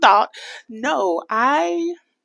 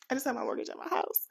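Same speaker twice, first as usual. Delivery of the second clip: higher, softer restatement; soft repeat; 4 semitones higher, 7 dB quieter, faster than usual. Real, not acted. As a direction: say it over softly, pitched up. Repeats the statement more softly.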